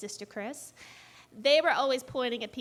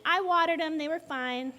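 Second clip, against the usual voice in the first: mildly indignant interjection, higher and louder at first; protesting dad; 4 semitones higher, 4 dB louder than usual. Retold or imitated. Dad butting in about the flowers, mildly indignant. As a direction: chime in as a lightly voiced dad.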